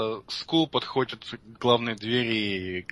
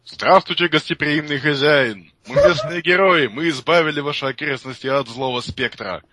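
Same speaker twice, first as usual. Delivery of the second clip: loud, grand greeting; heroic herald voice; 4 dB louder than usual. Acted. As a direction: proclaim it like a proud hero. Hero greets host at door.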